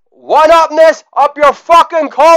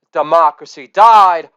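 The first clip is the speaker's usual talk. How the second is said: shouted punchline; 6 semitones lower than usual. Acted.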